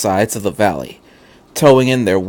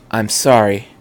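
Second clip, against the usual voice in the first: calm. Acted. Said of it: "Rei said calmly".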